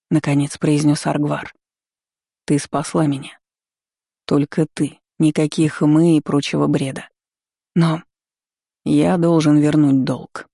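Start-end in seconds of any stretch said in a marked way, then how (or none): 2.5-10.5 slightly lowered, categorical dragon. A narrator's reading. Dragon insists on repaying his debt to his rescuer, categorical. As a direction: state it with understated, unarguable finality. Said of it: "безапелляционно продолжил дракон".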